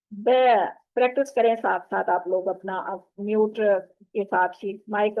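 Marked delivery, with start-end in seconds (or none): 0.1-0.3 ब with a thin vowel through smiling lips; lips spread. Shown as a demonstration. Teacher showing the letter as for a photo smile, lips spread. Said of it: "smile जो करते हैं उस अंदाज में".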